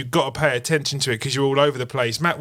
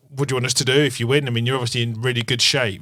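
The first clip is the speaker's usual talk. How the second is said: put-on quick stern northern English accent; a touch of a brisk northern English accent; faster than usual. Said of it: "Westwood in his kind of stern northern accent said".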